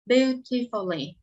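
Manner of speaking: slow, careful reading of Beautifully; teacher models Beautifully slowly, syllable by syllable; model pronunciation. Shown as a demonstration. Teacher reads word for class to repeat, slow and careful. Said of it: "Chúng ta sẽ cùng đọc cho cô những từ sau đây nha".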